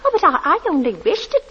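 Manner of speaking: timid, rising plea trailing to a whisper; startled, apologetic landlady; anxious little plea; flustered. Acted.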